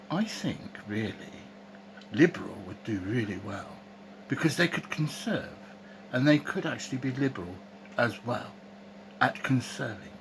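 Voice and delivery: a lightly put-on posh English accent; mock posh English accent, said half in jest. Vlogger mocking politicians in a lightly posh English accent. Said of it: "I'm gonna put on my posh voice now".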